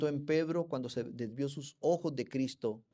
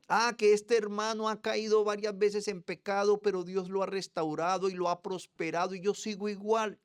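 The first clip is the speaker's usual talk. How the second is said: high, loud resentful grumble; envious complaint; 9 semitones higher, 6 dB louder than usual. Retold or imitated. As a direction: complain about a blessed brother. Envious believer quoted.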